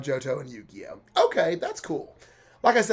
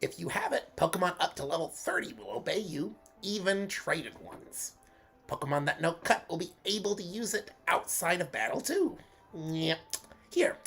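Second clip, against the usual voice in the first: Bugs Bunny voice; 3 semitones higher than usual. Acted. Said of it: "going for a Bugs Bunny sort of sound".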